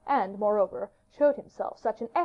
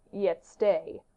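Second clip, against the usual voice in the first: grave, sudden halt; a serious king checking himself; gravely serious. Acted. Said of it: "in a very serious tone of voice".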